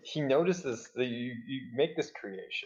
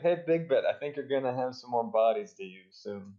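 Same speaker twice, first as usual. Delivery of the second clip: mock shout; 3 dB louder than usual. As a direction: hail someone across the room, then settle into talk. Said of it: "he then shouts to Big Bet".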